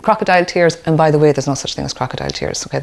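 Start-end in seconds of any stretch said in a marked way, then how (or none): 0.0-0.8 dismissive parent. Retold or imitated. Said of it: "we say things like".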